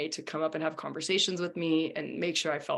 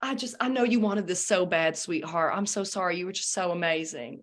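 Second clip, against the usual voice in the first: put-on country singer accent. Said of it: "I'm gonna do a country accent".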